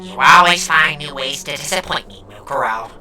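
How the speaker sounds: low, withering disdain; cold disappointment. Acted. Cold disdain toward sister.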